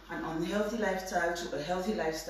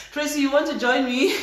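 laughing; 3 semitones higher, 5 dB louder than usual. Real, not acted. Laughing invite to viewer.

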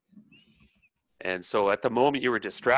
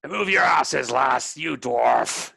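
loud, high start, drawn-out finish; rough shipboard command, stretching the insult; bossy order; 3 semitones higher, 4 dB louder, slower than usual. Acted. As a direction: bark it as the one in charge. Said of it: "he's in charge".

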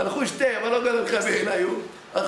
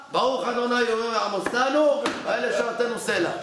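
pious answer. Retold or imitated. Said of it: "ככה היה עונה לך".

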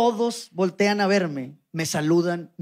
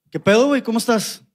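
manly greeting, a bit louder; voz varonil; 3 semitones higher, 4 dB louder than usual. Retold or imitated. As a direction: greet him like a macho dude. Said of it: "con voz varonil". (saludo con voz varonil)

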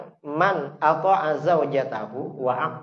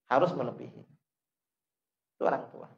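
quiet echo; 2 semitones lower, 6 dB quieter, much faster than usual. Real, not acted. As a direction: let Harus melebihi sink in softly. (ulangan pelan dan lembut Harus melebihi)

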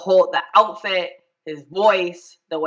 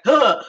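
cringing gasp; 5 semitones higher, 4 dB louder than usual. Acted. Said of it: "think of a memory and you're like".

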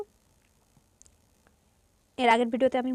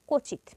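extra push on the first sound of কচিত; কচিত, leaning on the opening ক; extra initial stress; 3 semitones higher, much slower than usual. Shown as a demonstration. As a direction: say কচিত with a weighted opening consonant. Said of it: "অতিরিক্ত ঝোঁক পড়বে উচ্চারণ করতে".

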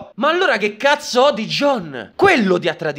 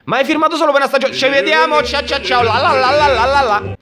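mock breezy goodbye; 6 semitones higher, faster than usual. Mocking Ned's hasty goodbye.

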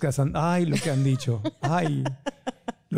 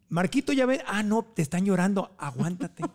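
higher, kindly God figure who teases; mock divine voice, light and higher; playful God voice; 4 semitones higher than usual. God teasing Marco in a joke, higher and playful. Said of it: "imagínate a Diosito y dice".

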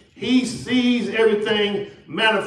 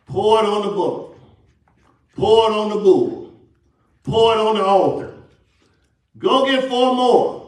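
commanding; 3 semitones higher, 3 dB louder than usual. Retold or imitated. Prophet orders water poured, acted out.

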